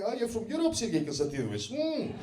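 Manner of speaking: people mocking a Russian comic's origins, hammed-up Russian gibberish. A stranger greeting a Russian from Europe, mock Russian. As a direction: play a passer-by doing a silly Russian accent. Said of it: "people come up to me".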